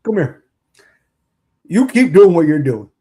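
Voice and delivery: lightly voiced gruff coach; a hint of a gruff coach calling a player over; Hey Weirdo bit. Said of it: "we're gonna get into the Hey Weirdo".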